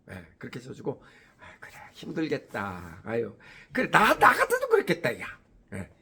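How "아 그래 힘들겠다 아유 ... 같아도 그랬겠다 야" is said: sympathetic. Retold or imitated. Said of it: "이렇게 편을 들어줍니다".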